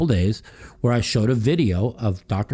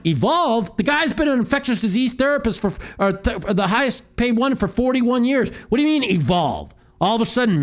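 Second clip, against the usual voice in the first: higher and pushed, hammering each point; heated rant; 6 semitones higher than usual. Real, not acted. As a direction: rant at the listeners, fed up. Ranting about masks and Eric.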